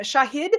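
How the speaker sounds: "Shahid" softly tried as a question; tentative pronunciation. Shown as a demonstration. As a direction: sound out "Shahid", unsure, voice rising. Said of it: "how do I pronounce your name?".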